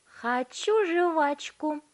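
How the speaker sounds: high, loud, very slow whine; stubborn girl. A narrator's reading. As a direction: dig in and drag the words out. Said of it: "упрямо повторила Виолетта".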